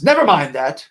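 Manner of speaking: stern clipped dismissal; lightly voiced strict teacher; mild mock snap. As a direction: shut the kids down, teacher style. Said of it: "snapped Miss Swamp".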